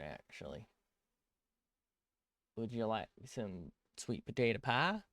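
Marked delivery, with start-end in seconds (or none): 2.6-5.0 mock southern accent. Streamer joking about turning southern, in a playful mock Southern accent. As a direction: offer it in a lightly hammed-up Southern accent. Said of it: "I don't know why I'm turning southern".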